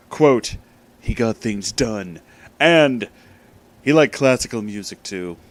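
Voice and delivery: loud, pompous storyteller read; mock-grand story reading. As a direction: read it like an overblown epic. Reads fan fiction aloud.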